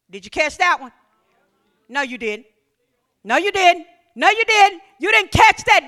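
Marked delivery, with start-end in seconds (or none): 1.9-5.9 building retort. Acted. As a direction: push it harder each time. Repeated, building.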